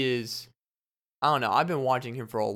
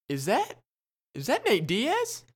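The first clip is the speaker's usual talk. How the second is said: stunned disbelief; 9 semitones higher than usual. Retold or imitated. Starstruck fan spotting a fighter, rising disbelief. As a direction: pitch shooting up in disbelief, slow. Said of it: "I'm like".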